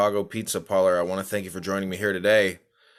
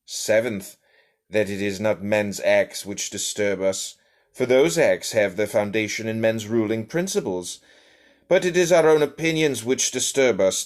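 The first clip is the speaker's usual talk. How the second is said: put-on a light, slightly raised English accent, read steadily. Reading Meditations to stream listeners in a lightly put-on English accent. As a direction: read the old text as an Englishman, lightly done. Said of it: "in an English voice".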